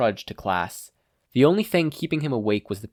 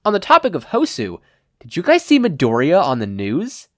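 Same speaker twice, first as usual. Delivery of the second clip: excited gossip; 6 semitones higher, 8 dB louder than usual. Acted. Kaminari slides up excited.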